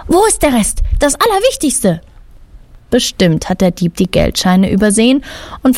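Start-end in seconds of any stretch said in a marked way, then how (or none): 0.1-2.0 higher, indignant demand; angry old lady demanding, higher; furious hiss. A narrator's reading. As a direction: demand it back in outrage. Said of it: "Erbost faucht die Dame die Polizisten an".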